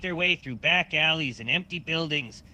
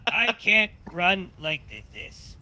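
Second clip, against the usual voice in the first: pained scream; 5 semitones higher, slower than usual. Acted. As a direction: yelp in agony, barely holding back laughs. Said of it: "Opie screams in pain".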